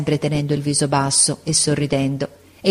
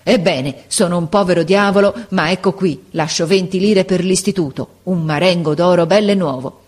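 mild furious shout; 4 dB louder than usual. Acted. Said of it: "gridò come un furioso".

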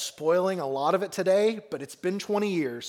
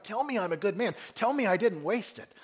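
desperate begging; 5 semitones higher than usual. Retold or imitated. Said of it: "the desperation he feels of begging".

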